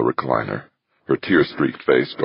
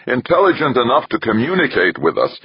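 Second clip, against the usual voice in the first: high-pitched, jubilant burst; exultant; 11 semitones higher, 3 dB louder than usual. A narrator's reading. Johansson exulting to Archer that the Leviathans can communicate, exultant. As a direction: crow it in triumph, pitched high. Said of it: "Johansson exulted".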